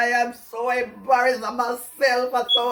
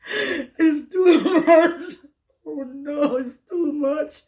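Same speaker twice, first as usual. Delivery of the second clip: overwhelmed; slower than usual. Real, not acted. Overwhelmed confession to viewers.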